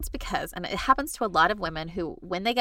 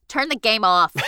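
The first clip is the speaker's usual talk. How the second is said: louder, lightly voiced stepmom order; 5 dB louder than usual. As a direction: give a mock parental command. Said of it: "that was your stepmom voice".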